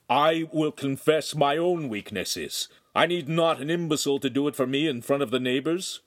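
a hint of a firm priest; calm authority of a confessor; stern priest. Priest rebukes the master.

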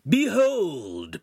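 high, loud, drawn-out cry; grand theatrical shout. A narrator's reading. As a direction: proclaim it like a herald. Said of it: "Pan shouted".

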